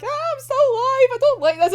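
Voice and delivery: high, loud mock panic; panicking. Nikolai on the live hostage video, mock panic. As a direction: squeal it in hammed-up panic. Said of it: "it's the panic".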